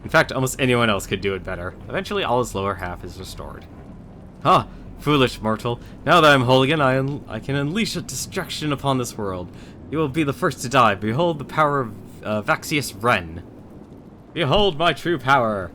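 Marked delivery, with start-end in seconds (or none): 4.4-15.7 lightly voiced boastful villain; a hint of a gloating dark lord. Skeleton villain revived and boasting.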